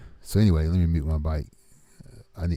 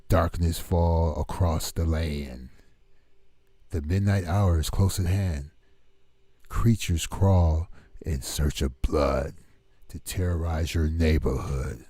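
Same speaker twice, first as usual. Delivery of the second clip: slow, dramatic spoken-word reading; poem recitation; slower than usual. Pretend. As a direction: recite it slowly like a horror poem.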